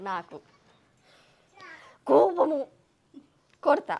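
నాకు ... కోపము ... కొడతా, each word spaced out. Shown as a demonstration. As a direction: break it into single words, stressing కోపము. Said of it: "నాకు కోపం వస్తే కొడతా".

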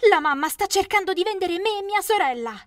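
high, loud plea; a girl begging the police for help, shouting; crying for help. Acted.

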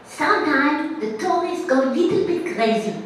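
high, loud, laughing Israeli officer voice; laughing Israeli cop. Retold or imitated. Officer warning the tourist, a loud laughing Israeli cop voice. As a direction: play the amused police officer.

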